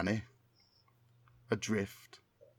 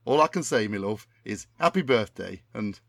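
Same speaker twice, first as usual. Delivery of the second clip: Tommy Cannon impression. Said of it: "my memory of what Tommy Cannon sounds like".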